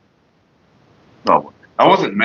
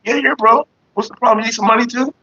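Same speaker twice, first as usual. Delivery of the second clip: high mock innocence; 10 semitones higher than usual. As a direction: voice pushed way up, faux-innocent. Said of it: "And I was like".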